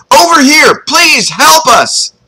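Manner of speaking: high, loud falsetto plea; screaming for help. Acted. Boy spots rescuer on the bank, screaming falsetto. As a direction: call across the water in a high scream. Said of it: "The third time I started screaming".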